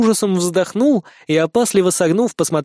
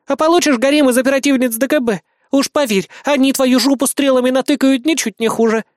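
high, louder mocking jab; mean smirk; 8 semitones higher, 4 dB louder than usual. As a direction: needle him with a spiteful grin. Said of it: "злобно усмехнулась Бисмарк". (высокая громкая злорадная насмешка)

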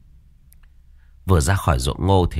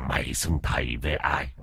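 low, quiet growling question; low menacing demand; 6 semitones lower, 9 dB quieter than usual. Acted. Dog ghost interrogates the cowering master, low and menacing. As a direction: press him with quiet menace.

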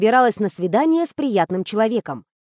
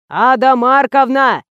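louder, slow, stretched-out bellow; guard's yell; 3 semitones higher, 6 dB louder, slower than usual. A narrator's reading. Guard bellows at the half-deaf actress, loud and drawn. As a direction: yell her name down the corridor. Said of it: "от его вопля".

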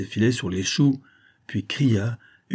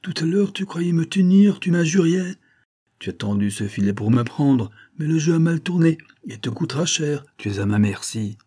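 angry scolding; 5 semitones higher than usual. Acted. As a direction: tear into the beaten peasant. Fox berates trapped peasant.

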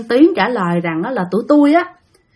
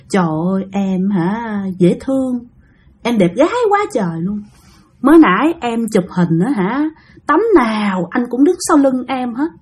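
understated creepy flirting, mostly softer; lightly voiced lecher; 3 dB quieter than usual. Male spirit coming on to a frightened woman, lightly leering. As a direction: lightly act a lecher sweet-talking softly. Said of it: "cái kiểu dê lắm".

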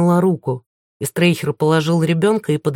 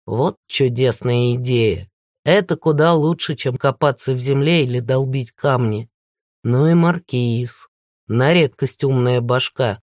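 gloating villain; 4 semitones lower than usual. Acted. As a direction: relish your clever discovery.

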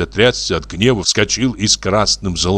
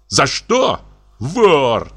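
with disgust; 7 semitones higher, much slower than usual. A narrator's reading. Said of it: "проговорил он с отвращением".

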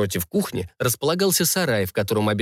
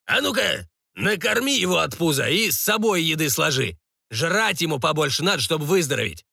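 lightly played gruff lord, raised pitch; bossy baron; 5 semitones higher than usual. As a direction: order the cook about, somewhat heated. (барон приказывает, слегка на повышенных тонах)

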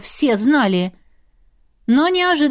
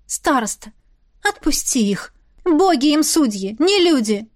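pleading request; 3 semitones higher than usual. Acted. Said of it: "Она попросила".

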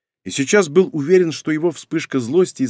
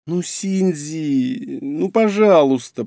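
slow, drawn-out higher-pitched wheedling; whining; 3 semitones higher, much slower than usual. A narrator's reading. Woman begging Shinji to give in, whining. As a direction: stretch the vowels in a pleading whine. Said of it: "продолжала она ныть".

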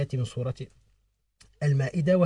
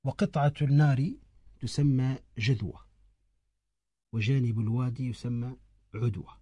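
verse recitation. Shown as a demonstration. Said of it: "يقول".

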